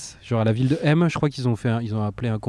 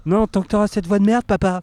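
higher, louder mock retort; mock indignant reply; 9 semitones higher, 4 dB louder than usual. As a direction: snap back at the dad. Répond au père imité. (réplique indignée et aiguë)

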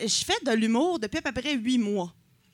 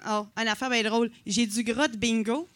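ordinary talk

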